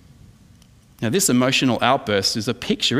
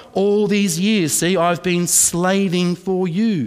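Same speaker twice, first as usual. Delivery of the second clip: slow, drawn-out grumble of a resentful son; a mild, slow, sulky complaint; resentful son's complaint; 4 semitones higher, slower than usual. Retold or imitated. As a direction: drag it out like a put-upon servant. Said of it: "verse twenty-nine".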